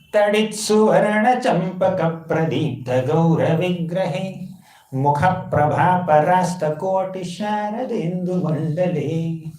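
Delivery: slow, measured chanted shloka; verse recitation. Shown as a demonstration. Teacher reciting scripture to the assembly, slow chant. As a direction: intone each Sanskrit word with reverence.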